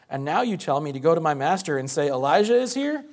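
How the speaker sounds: rising incredulous echo of the request; climbing, incredulous repeat. Acted. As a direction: build the disbelief into the last word. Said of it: "I had to say it with emphasis".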